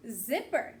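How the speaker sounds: "Zipper" said crisply as a model; modelled word. Shown as a demonstration. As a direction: clear teacher model of "Zipper". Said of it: "Say it with me".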